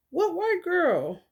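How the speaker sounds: slow, drawn-out disbelief; slow incredulous. Real, not acted. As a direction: stretch out the question, disbelieving. Incredulous repeat.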